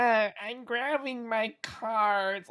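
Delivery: high, slow shaky old-lady impression; grandma voice. Friend imitating the streamer's grandma voice, high and slow. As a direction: imitate Kit Boga's grandma character. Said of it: "his grandma voice is like".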